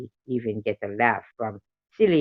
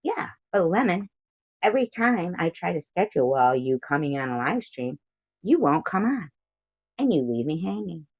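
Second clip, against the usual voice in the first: higher-pitched, playful grievance; mock complaint; 6 semitones higher than usual. Streamer complaining to Lemon about no-shows, mock complaint.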